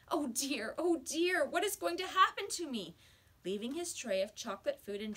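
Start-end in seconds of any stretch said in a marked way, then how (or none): 0.1-3.0 rising, louder, higher despair; frightened wail. Acted. John terrified of his chocolate food, high wail. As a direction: moan it, climbing in panic. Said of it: "he asked himself miserably".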